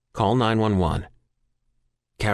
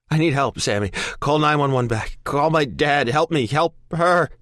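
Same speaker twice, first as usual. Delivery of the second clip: pleading; 8 semitones higher, 3 dB louder than usual. Acted. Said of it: "I plead with him".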